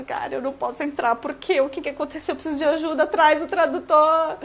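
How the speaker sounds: begging the airport officer for a translator, mock tearful; mock crying. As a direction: play a stranded traveller begging, fake-crying. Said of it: "Aí você começa a chorar".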